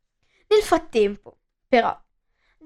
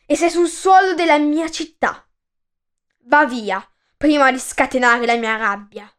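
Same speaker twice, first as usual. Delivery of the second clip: angry rebuke; 3 dB louder than usual. Acted. King angrily rebukes messenger.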